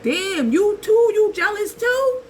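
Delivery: climbing high, wounded you-too; exasperated disbelief. Retold or imitated. To jealous people, high exasperated disbelief. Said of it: "But it's like".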